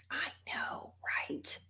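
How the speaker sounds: hushed, conspiratorial whisper; whispered aside. Real, not acted. Speaker agreeing with listeners in an aside, whispered.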